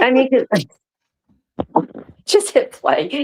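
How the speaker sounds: slow, high, helpless giggling; words dissolving into giggles; cracking up. Real, not acted. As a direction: struggle to talk through laughter. Cracking up while asking to play.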